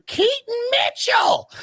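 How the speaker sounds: big soaring play-by-play call of the name; Al Michaels call. Retold or imitated. Commentator calling a touchdown, stretched high shout. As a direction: belt the name like a broadcaster on a touchdown. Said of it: "you hear Al Michaels go".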